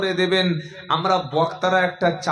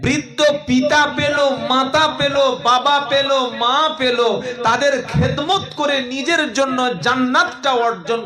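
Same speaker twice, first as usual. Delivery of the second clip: higher, driving sermon cadence; rhythmic preaching; 6 semitones higher, 4 dB louder, slower than usual. Acted. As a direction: preach the list in a lifted, measured chant.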